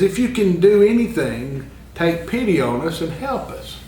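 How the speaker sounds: a father's urgent plea, voice lifted and rising; passionate appeal. Retold or imitated. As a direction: beg for help with a desperate father's plea. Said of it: "makes a very passionate appeal".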